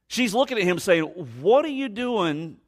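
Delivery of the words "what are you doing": high, drawn-out disbelieving question; higher-pitched mock astonishment; incredulous. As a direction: stretch it out slowly, taken aback. Acting the woman's startled question.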